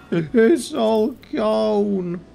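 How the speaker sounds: high, slow, laughing in disbelief; despairing laugh. Real, not acted. Gear vanishes on equip.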